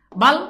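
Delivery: বাল said alone, then a stop; syllable cut off. Shown as a demonstration. Teacher splitting a word for students, syllable cut off. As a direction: stop short right after বাল. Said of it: "থেমে গেছো".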